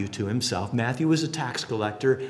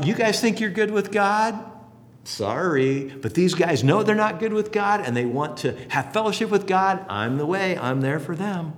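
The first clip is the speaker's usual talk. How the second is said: paraphrasing Jesus; 5 semitones higher than usual. Retold or imitated. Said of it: "Jesus is saying".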